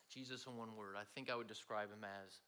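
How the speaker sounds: soft, low, unhurried reply; relaxed answer. Retold or imitated. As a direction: lean back and say it easy. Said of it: "leaned back in his chair and he said".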